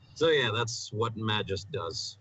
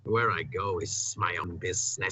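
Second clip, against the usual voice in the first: mock Russian accent; 3 semitones lower than usual. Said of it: "making fun of my accent".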